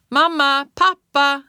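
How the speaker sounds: loud high cries for parents; screaming. A narrator's reading. Lost child screams for her parents, loud high. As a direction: scream for mum and dad. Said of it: "skrek jag".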